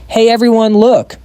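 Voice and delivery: high, bright call to friends. A narrator's reading. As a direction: call out to the group. Girl calling to friends.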